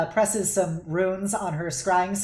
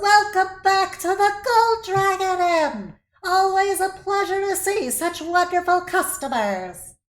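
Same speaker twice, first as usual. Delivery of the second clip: very high, friendly, pleasant little hostess voice; 12 semitones higher, 4 dB louder than usual. Voicing a pleasant little halfling woman welcoming guests back: pleasant halfling woman voice. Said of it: "pleasant little halfling woman in her".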